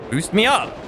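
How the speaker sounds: "Boost me up" pitched high, pleading at the game; high frustrated plea. Real, not acted. Streamer begging the game to work, high plea. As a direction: whine at the broken boost, voice up high.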